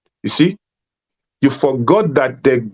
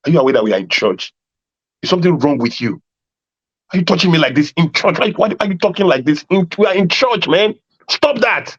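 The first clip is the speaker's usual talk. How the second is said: mock scolding the girlfriend; 2 semitones higher than usual. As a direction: play shocked boyfriend telling her off. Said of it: "you will tell her".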